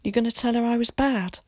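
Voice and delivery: put-on anxious boy. A narrator's reading. Willie asking Tom about the letter, anxiously. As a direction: ask timidly, as a little boy.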